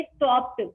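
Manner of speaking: स्टॉप्ड with the ending spoken as a crisp T sound. Shown as a demonstration. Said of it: "इसका pronunciation हम करेंगे".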